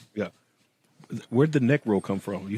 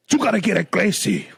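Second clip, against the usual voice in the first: mock Hispanic accent; 8 semitones higher than usual. Playing Hispanic accents for laughs.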